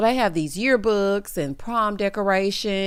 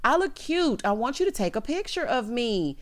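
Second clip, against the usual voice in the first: higher-pitched, lightly annoyed imitation; mild playful annoyance; 4 semitones higher, 3 dB quieter, slower than usual. Girlfriend wanting her picture taken, mildly annoyed. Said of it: "It was more of an annoyance".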